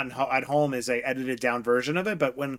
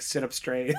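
gentle nudge; 4 dB quieter than usual. Retold or imitated. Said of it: "so sweet".

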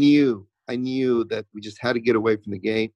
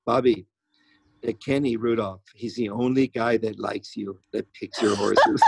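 put-on Spanish accent; 3 semitones lower than usual. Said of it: "in her little Spanish accent".

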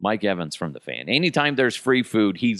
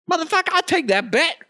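high, loud rush to take the bet; giddy gambler; eager gambler yelp; 3 dB louder, faster than usual. Retold or imitated. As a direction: pounce on the bet.

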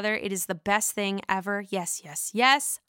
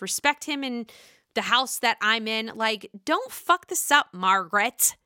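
high, indignant mock rant; mock Teresa rant; 4 semitones higher than usual. Teresa scolding Margaret at the party, in a high indignant mock rant. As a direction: play Teresa defending her man, fired up. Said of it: "And Teresa's like".

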